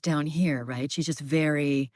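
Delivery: low pitch, settled down here. Shown as a demonstration. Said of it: "in the deeper register".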